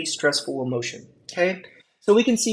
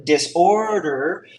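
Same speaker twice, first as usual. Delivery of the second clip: "disorder" stretched on its middle syllable; single out "disorder" with a drawn-out stress; much slower than usual. Real, not acted. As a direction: lean hard on the OR in "disorder". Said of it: "I'm emphasizing on this word".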